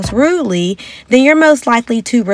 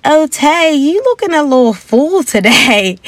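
higher, lightly voiced gentle tease; friend's sweet dig; 7 semitones higher than usual. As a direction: say it sweetly, softening the jab. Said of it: "they were like".

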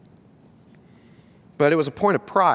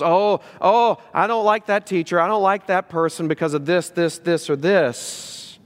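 mock grumbling. Critic grumbling to disciples about their teacher, mock complaint. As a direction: lightly imitate a grumbler listing petty objections. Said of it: "they start grumbling to the people".

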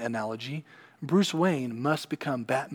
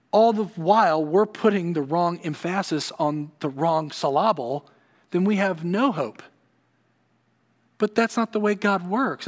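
louder and higher preaching climb; preacher pressing the point to the congregation; rising preaching fervor; 5 semitones higher, 4 dB louder than usual. Acted. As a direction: build the conviction with force. Preacher builds to strong point.

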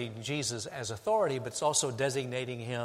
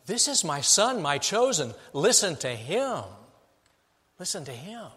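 voice from heaven; 2 semitones higher than usual. Acted. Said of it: "The voice said".

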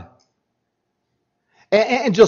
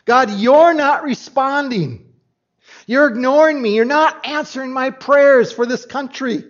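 accusing God; 5 semitones higher than usual. Acted. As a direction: voice the prophet's complaint. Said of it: "What he's accusing God of".

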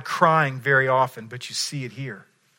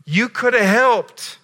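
slow, rising to a louder, higher cry; emotional plea; 4 semitones higher, 4 dB louder, slower than usual. Retold or imitated. Mary confronting Jesus at the tomb, a slow building anguished plea. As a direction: build slowly to an anguished appeal. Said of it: "in full board emotion".

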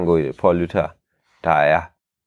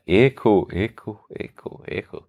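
fading echo. Shown as a demonstration. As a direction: let the word die away like an echo. Ekko demonstreret, svinder hen. (ekko der forsvinder)

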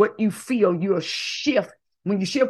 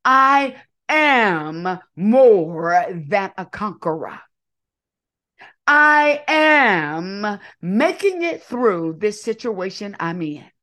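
slow, louder, each word planted; bold declaration; 5 dB louder, slower than usual. Shown as a demonstration. Leader declaring an affirmation for the crowd to repeat. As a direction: proclaim it so they echo it. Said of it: "So repeat after me".

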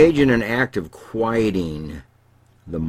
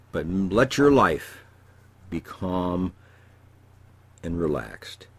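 soothing advice; slower than usual. Real, not acted. Therapist closes with soothing advice.

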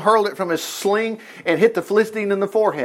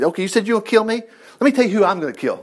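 quick-fire retort at little more than talking level; David shouting back; 4 semitones higher, faster than usual. Acted. David answering Goliath's threat, a fast mock shout-back. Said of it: "David shouted back".

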